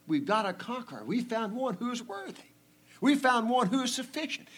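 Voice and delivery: high-pitched, excited good news; jubilant announcement. Acted. Acts elder announcing a worthy conqueror.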